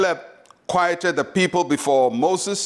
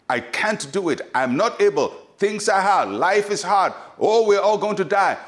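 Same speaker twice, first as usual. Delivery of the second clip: mock complaint, climbing higher as it goes; voice of unbelief; 4 semitones higher than usual. People infected with unbelief, mock despairing. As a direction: imitate doubters, building to mild alarm. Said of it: "The voice of unbelief is very infectious".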